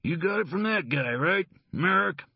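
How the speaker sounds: a suspicious, cornered thug pressing for answers; Leger's voice. Acted. Voices Leger, a belligerent suspect.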